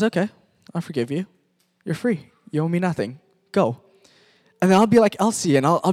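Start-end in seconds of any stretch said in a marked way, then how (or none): 0.0-3.8 gentle forgiveness. Retold or imitated. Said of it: "And God says".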